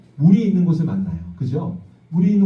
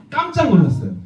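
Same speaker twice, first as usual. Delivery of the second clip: higher, surprised gasp of a line; startled; 8 semitones higher than usual. Acted. Pastor telling children Moses was startled, surprised. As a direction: act out Moses' shock.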